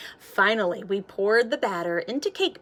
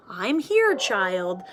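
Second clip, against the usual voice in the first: steady soft voice; 3 dB louder, slower than usual. Acted. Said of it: "Her voice was steady and soft".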